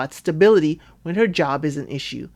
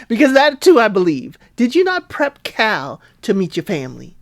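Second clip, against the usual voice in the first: mock scolding; 4 semitones higher, 3 dB louder than usual. Her mock scolding of the couple.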